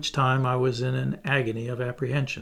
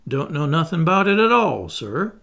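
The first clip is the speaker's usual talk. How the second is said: feigned ignorance; 3 semitones higher, 4 dB louder than usual. Acted. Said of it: "assuming an air of ignorance and surprise".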